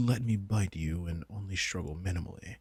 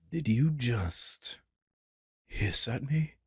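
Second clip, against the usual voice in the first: higher, slow and affronted; indignant disbelief; 5 semitones higher, slower than usual. Acted. Vampire after her familiar hisses at her, indignant. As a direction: stretch it out in offended shock.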